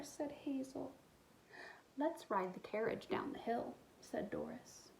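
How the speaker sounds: put-on expressive read-aloud for young kids; storybook reading. A narrator's reading. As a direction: tell the story warmly to little listeners. Reads picture book aloud.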